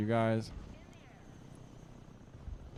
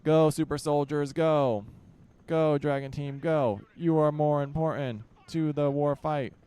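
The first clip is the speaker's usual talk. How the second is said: higher, louder rallying cry to the troops; rallying shout; 3 semitones higher, 3 dB louder than usual. Acted. Commander urging his soldiers forward into battle, loud rallying cry.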